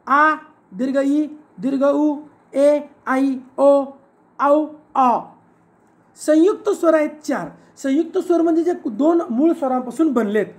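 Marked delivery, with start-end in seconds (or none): 0.1-5.2 long vowels sounded out slowly, singly; long vowels recited. Shown as a demonstration. Teacher lists the eight long vowels, sounded out singly. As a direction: hold each long vowel on a level note. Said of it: "दीर्घ स्वर आहेत आठ".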